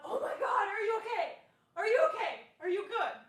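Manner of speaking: high alarmed shouts of concern; panicked shouting. Retold or imitated. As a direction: yell it as she sees her friend fall. Friend panicking after fall.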